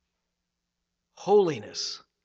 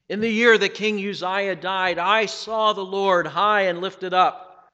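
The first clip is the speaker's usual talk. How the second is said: solemn, measured Bible reading; scripture reading; 2 semitones higher than usual. Acted. Preacher reading Isaiah to the congregation, solemn. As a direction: read the vision with awe. Reads Isaiah six aloud.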